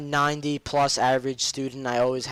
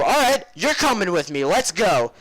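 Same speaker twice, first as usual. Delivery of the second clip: mock stern order; 5 semitones higher, 5 dB louder than usual. Student ordering teacher along.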